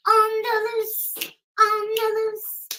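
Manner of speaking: slow, sing-song mock of a gloating woman; taunting, slow chant. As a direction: drag out on the loose like she's bragging. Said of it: "She's like".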